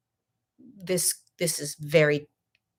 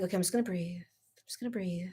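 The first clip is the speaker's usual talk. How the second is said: soft whispered mantra to herself; hushed, calming herself; whispered self-calming; 11 dB quieter, faster than usual. Retold or imitated. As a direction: whisper it to calm yourself down. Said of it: "I was just like".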